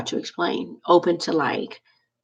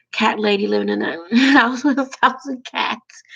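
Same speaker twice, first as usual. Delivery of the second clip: laughing; 5 semitones higher than usual. Real, not acted. Laughing at own cat lady fear.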